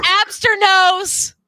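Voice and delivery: drawled mock accent.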